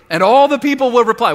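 booming, high, loud divine voice; God's voice. Acted. Preacher voicing God to his people, booming. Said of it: "This is God talking".

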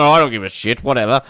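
mock a star who can't be bothered; lightly acted boredom. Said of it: "him being bored".

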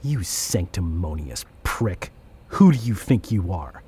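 low start, rising into indignation; scornful demonstration. Acted. Innovator helps Graham deliver his insult, scornful and deliberate. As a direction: show how the insult should land.

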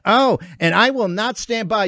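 mocking a whiny, cracking official; sneering parody of a shaky vow; a hammed-up imitation of a quavering speaker; mock crackling voice of Merrick Garland. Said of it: "the crackling voice".

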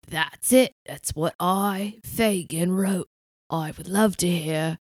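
put-on scratchy deep male voice, British accent; Roy Kent. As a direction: play a gruff British dealer talking business. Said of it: "two dueling deep voices".

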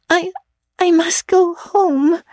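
high, slow, dull stubborn insistence; dogged and dazed; stupidly but determinedly. Acted. Tipsy girl refusing her friend's tea, stubborn and dull. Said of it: "stupidly but determinedly".

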